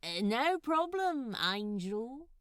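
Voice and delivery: casual cover, hiding a scheme; lightly voiced Crowley. A narrator's reading. Crowley answering the angel while hiding a prank, lightly voiced.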